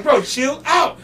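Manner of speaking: loud, high retold plea; exasperated retort. Guy to the angry rapper, exasperated and loud. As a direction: raise your voice to settle a mad friend. Retold argument over lost phone.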